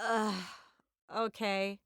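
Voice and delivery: weary mock exasperation; eye-rolling reluctance. Fidel hearing who sent her, imitated grudging sigh. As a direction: sigh it out, then give in. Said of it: "he was rolling his eyes".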